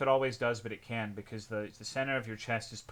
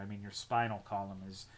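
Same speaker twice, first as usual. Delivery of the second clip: ordinary delivery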